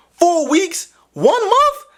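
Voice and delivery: high incredulous yelp; 1 disbelief. Real, not acted. Vlogger refusing a month without touch, high and outraged.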